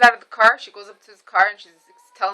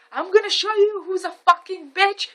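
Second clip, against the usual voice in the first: retold screaming; 10 semitones higher than usual. Mom retells confronting the driver, mock screaming. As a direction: climb in pitch into mom's mock scream. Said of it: "I started screaming".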